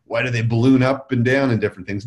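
ordinary delivery

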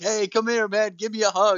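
laid-back surfer voice. Retelling how the wrestler talks in promos: surfer Sting voice. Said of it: "he still cuts promos like he's blonde surfer Sting".

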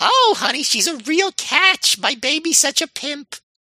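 very high-pitched, badly done put-on grandma voice. Trying a second time at imitating his grandmother: bad Jewish grandmother impression. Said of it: "that's also a bad impression but it's closer".

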